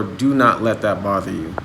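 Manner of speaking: ordinary talk, nothing marked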